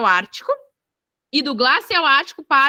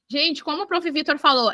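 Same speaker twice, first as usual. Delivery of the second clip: usual speaking voice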